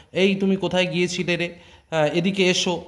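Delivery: lightly voiced refined standard Bengali call; polite standard Bengali. Shown as a demonstration. Teacher contrasts the outdoor standard Bengali manner. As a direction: ask politely in proper city Bengali. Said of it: "টান কিন্তু কথার অন্যরকম".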